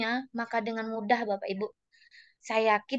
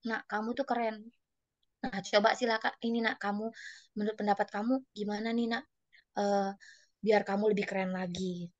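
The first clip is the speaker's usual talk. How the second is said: soft, coaxing teacher; membujuk memotivasi; 4 semitones lower, 6 dB quieter than usual. Retold or imitated. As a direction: gently encourage a pupil, a little hesitant. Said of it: "saya motivasi dia". (membujuk murid dengan lembut)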